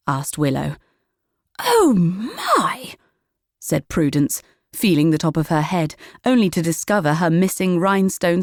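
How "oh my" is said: put-on high surprised old lady gasp. A narrator's reading. Prudence finding glasses on her head, high surprised. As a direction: caught out by the obvious.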